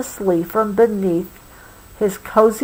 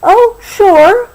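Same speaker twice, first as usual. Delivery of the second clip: put-on much higher, louder kid trying to sound casual; 12 semitones higher, 8 dB louder than usual. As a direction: toss it off like it's nothing. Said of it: "replied Roo as casually as he could".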